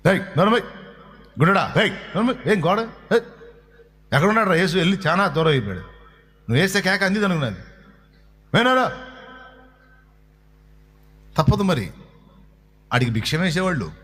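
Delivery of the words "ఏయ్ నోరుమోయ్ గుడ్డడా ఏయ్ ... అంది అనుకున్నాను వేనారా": harsh rebuke of a beggar; rough scolding. Acted. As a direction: tell him to shut up. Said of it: "ఇందా నేను చెప్పా".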